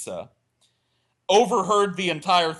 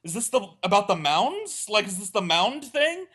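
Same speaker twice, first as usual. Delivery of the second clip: clueless high question; 5 semitones higher than usual. Retold or imitated. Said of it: "So I asked".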